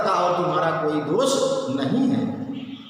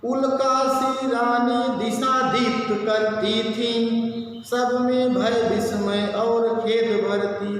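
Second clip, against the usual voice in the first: slow, drawn-out chanted verse; verse recitation; slower than usual. Acted. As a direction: recite the poem in measured sing-song, stretching line ends. (धीमे, लयबद्ध स्वर में काव्य-पाठ)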